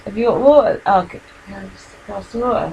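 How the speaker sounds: talking through hiccups; hiccuping between words. Real, not acted. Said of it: "I've got the hiccups now".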